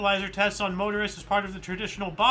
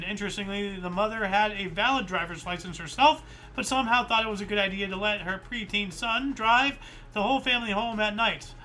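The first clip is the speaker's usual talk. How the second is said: breathless after a long walk; winded, catching breath between words. Real, not acted. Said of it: "Sorry, I'm out of breath".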